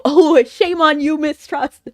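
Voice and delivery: mock-heroic reproach, drawn out; dubbed hero impression. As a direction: declaim it like an over-dramatic dub. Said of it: "it sounded like this".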